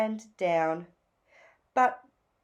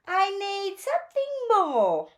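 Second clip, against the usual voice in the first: higher, longing little bird; lightly raised yearning voice; lightly voiced Phoebe; 11 semitones higher, 4 dB louder than usual. A narrator's reading. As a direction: wish for more, a touch wistful.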